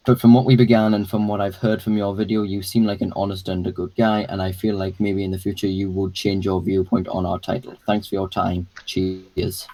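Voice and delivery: flat, level monotone reading. Shown as a demonstration. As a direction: read it all on one even tone. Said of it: "I'll just go my dual monotone voice".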